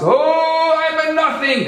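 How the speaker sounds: loud, very high drawn-out wail; mock scream. Inspired newcomer joining the two rabbis, mock screaming. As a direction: belt out an overblown cry of humility. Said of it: "he screams on top of his lungs".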